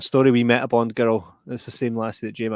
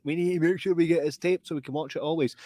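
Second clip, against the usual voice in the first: high fussy voice; 5 semitones higher than usual. Retold or imitated. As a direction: fuss over it gently. Voicing mum.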